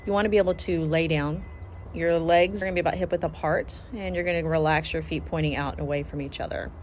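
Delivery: measured, instructional relaxation voice; guided meditation. Acted. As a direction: talk them through each step, pausing between cues. Leads a guided body-scan meditation.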